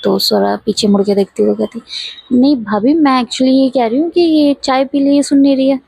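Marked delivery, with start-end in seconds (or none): 2.3-5.8 raised pitch, mildly exasperated; slightly high-pitched, lightly annoyed retelling; voice goes a bit high. Retold or imitated. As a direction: let the voice climb up as she explains. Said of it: "उसका sound थोड़ा high हो जाता है".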